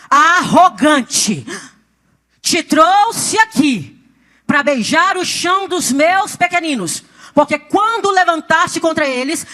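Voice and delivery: slow, loud, thundering divine rebuke; imitating God's mighty voice. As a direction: proclaim it like a king passing judgment, word by drawn-out word. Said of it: "é uma voz de trovão".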